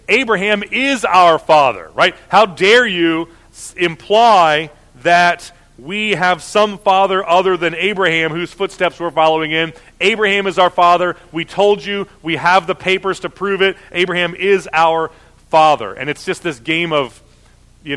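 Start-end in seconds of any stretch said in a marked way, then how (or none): 0.1-1.9 indignant insistence, raised and louder; heated. Acted. The accusers answer Jesus back, heated. 2.3-15.9 indignant, louder protest; heated. Acted. Offended accusers insist on their ancestry, heated. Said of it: "it's gonna start to get a little, uh, heated".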